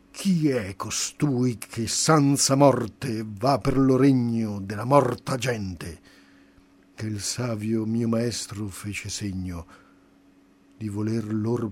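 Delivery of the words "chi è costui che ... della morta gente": domanda stizzita, più forte; stizzoso. Acted. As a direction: lo chiedono con rabbia sdegnosa. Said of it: "che stizzosamente dicean". (i demoni alle porte, con stizza)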